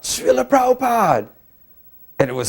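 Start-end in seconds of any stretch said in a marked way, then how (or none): 0.0-1.3 yelled out. Retold or imitated. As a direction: shout it out at the top of your voice. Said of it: "I yelled out".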